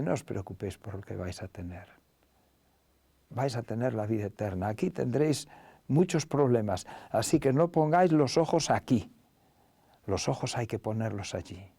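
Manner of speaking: soft, low, tender reply; quiet, kindly and unhurried in feeling; affectionate reassurance. Retold or imitated. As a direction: reassure them gently, as a loving teacher. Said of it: "les responde con cariño".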